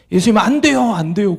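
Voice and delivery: mock a wailing child pleading, pitch lifted at first; 울먹이는 애원. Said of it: "통곡을 하면서 그 어린아이가". (아이가 울며 매달리듯 높여 애원)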